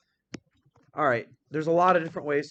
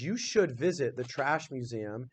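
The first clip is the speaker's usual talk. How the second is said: slow careful read. Shown as a demonstration. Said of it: "So it says".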